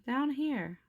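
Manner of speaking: high, loud call. Acted. Buzz calling up to Jessie from the sandbox. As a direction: answer from across the yard. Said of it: "Buzz called".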